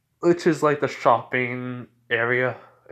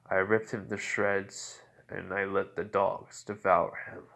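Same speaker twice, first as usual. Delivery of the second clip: slow, soft, low menace; understated chilling calm; cold confession; 3 semitones lower, 5 dB quieter, slower than usual. Retold or imitated. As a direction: state it slowly and quietly, unbothered. Vampire coolly admits a killing.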